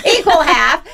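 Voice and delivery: laughing as you agree; laughing echo. Real, not acted. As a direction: echo the words through a chuckle. Host echoes with a laugh.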